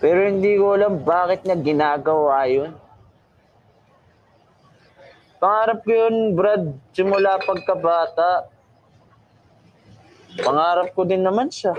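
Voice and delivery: put-on slurred, drunken rambling. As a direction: talk like a sad drunk at the bar. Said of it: "Kaso hubog naman ka".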